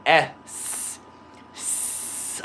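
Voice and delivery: careful, drawn-out hiss on the S; practised S. Shown as a demonstration. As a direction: hold a clean "S" sound for practice. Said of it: "when I practice the pronunciation".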